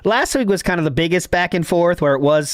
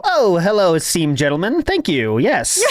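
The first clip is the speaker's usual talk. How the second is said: Harvard scholar. Retold or imitated. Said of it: "it's like there's a Harvard scholar".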